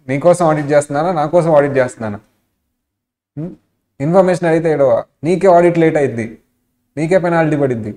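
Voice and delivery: mock telling-off, get heated on the middle lines; imitating an angry auditor yelling. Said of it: "ఇలా అరిచేస్తున్నాడు auditor". (కోపంగా అరుస్తున్న auditor అనుకరణ)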